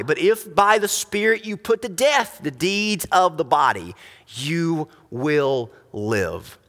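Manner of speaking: measured, solemn reading of the verses, slowing on key words; scripture reading. Acted. Preacher reading Romans to the congregation, solemn scripture reading. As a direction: read the passage aloud like a preacher.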